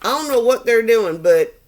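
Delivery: high, breezy goddess voice, just woken from a nap; sassy earth goddess. Acted. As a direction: play a flippant goddess back from holiday. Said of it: "the energy of the earth goddess woke up".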